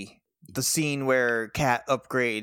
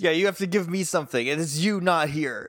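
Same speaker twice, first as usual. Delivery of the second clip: exasperated; 4 semitones higher than usual. Retold or imitated. S1 voices exasperated interrogator.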